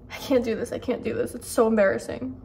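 soft, cringing reluctance; quiet dread. Real, not acted. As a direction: shrink away with secondhand embarrassment. Dreading reading an embarrassing scene.

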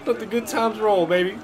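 loud, high hype call; excited. Pretend. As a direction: belt it out like a catchphrase. Sings out catchphrase excitedly.

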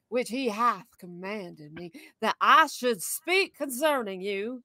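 lightly voiced old grandma, slow. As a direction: read it slowly, a hint of grandma. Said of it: "I haven't read grandma voice in a while".

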